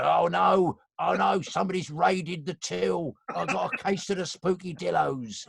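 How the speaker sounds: high, drawn-out lament from a puppet; put-on high puppet voice of dismay; tortoise puppet voice. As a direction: wail it slowly like a worried cashier. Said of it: "He was like that".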